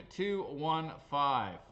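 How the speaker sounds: slow, measured call of the number; slow number reading. Real, not acted. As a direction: read the digits out slowly. First reading of winning number.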